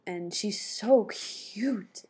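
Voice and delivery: slow, breathy whisper of adoration; doting whisper. Real, not acted. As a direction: whisper it like she's too cute to bear. Doting on the baby.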